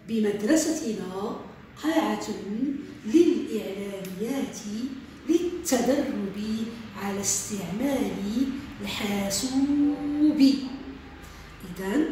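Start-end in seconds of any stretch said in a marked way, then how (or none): 0.1-10.4 slow, deliberate dictation read. Shown as a demonstration. Teacher dictating a sentence to pupils, slow and deliberate. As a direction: read it word by word for the pupils to write. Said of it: "إذن سأقرأ لكم جملة".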